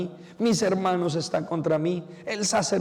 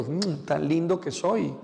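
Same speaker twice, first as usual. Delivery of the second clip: slow, pleased coo to oneself; self-loving coo; slower than usual. Shown as a demonstration. Priest shows the congregation how to kiss themselves, cooing slowly. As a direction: savor it like blowing yourself a kiss. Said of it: "De ese besito".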